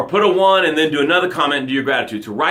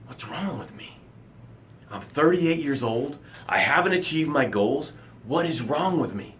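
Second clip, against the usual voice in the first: quiet, worn-down self-questioning; despairing self-doubt; 4 dB quieter than usual. Acted. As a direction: murmur it like a defeated person. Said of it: "you're starting to ask the question".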